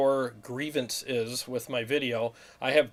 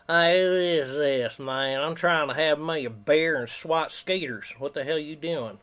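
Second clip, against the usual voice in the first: Billy Bob voice. Acted. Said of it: "Billy Bob".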